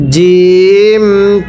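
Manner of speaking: জিম, drawn out with a firm hard j; জিম, held long and firm; hard jim sound. Shown as a demonstration. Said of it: "এই জিমটা সর্বদা শক্ত করে উচ্চারণ করতে হবে". (জিম শক্ত করে)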